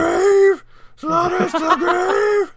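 loud, high wrestling-announcer shout; entrance announcement. Pretend. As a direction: announce him like a ring entrance. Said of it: "that's what you would hear every time he walks into the room".

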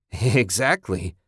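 slow word through a manic laugh; maniacal laugh. Acted. Man on the edge answering his partner, laughing maniacally. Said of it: "Ted laughed shrilly, maniacally".

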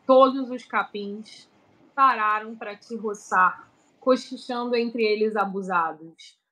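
tender, measured love poem recital; poem reading. Acted. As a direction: read it like a love letter. Reads her romantic poem.

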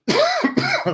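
sudden hacking cough; chesty cough. Real, not acted. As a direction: cough hard mid-sentence. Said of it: "aż mnie kaszel złapał".

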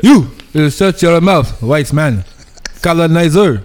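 slow mock African king accent. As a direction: play a stern Wakandan king. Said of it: "your African accent is still better".

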